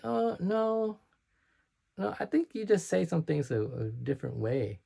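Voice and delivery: imitated reply. Friends answering whether he sounds Asian, imitated reply.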